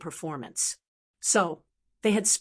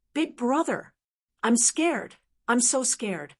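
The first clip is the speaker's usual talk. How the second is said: trembling voice; 3 semitones higher than usual. Acted. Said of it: "Shui Yao's trembling voice".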